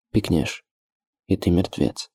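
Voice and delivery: understated hoarse, spiteful threat; low, hoarse menace. A narrator's reading. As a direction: threaten under your breath, roughened. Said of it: "звучал так низко, хрипло и злобно".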